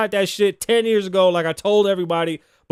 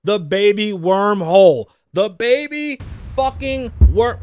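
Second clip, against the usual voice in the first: slow, louder, drawn-out "wormhole"; geeked-out announcement; 6 dB louder, slower than usual. Real, not acted. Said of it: "so geeked about".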